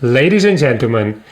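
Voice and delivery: booming ring announcer intro; lucha libre announcer. Pretend. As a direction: build the crowd up like a wrestling MC. Grand artist reveal introduction.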